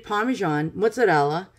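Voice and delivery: casual New York Italian-American pronunciation; New York accent. Real, not acted. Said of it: "I said that with my New York accent".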